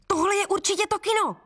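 high excited exclamation; excited cry. Acted. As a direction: cry it out, thrilled to spot it. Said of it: "vykřikl Bělobřich". (vzrušené zvolání, hodně vysoko)

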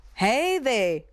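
a lightly voiced giant calling out; booming giant's hail; giant's hoot. A narrator's reading. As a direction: call out like a big giant.

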